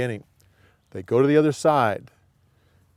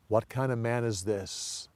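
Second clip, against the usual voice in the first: soft, hushed wonder; hushed awe; 3 semitones lower, 8 dB quieter than usual. Shown as a demonstration. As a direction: breathe it out, amazed. Disciples' awed question, hushed.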